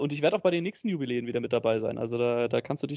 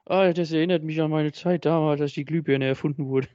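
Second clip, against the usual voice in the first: put-on old man voice; 2 semitones higher, 3 dB louder than usual. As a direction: fumble through notes like a grandpa. Playing an old podcaster.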